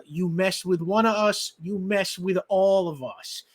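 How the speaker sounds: put-on a light Brooklyn accent; tough-guy Brooklyn accent. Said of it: "which I do in my best Brooklyn accent".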